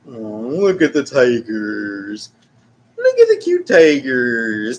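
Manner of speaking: slow gushing delight; slow cooing. Acted. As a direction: coo at the animals. Cooing at tigers.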